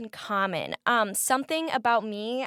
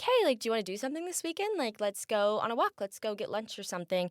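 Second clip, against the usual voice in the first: eager friendly invite; 4 dB quieter, faster than usual. Retold or imitated. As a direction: rush the invite out brightly, hoping for a yes. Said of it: "So I would say".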